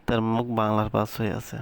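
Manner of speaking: ordinary delivery, nothing marked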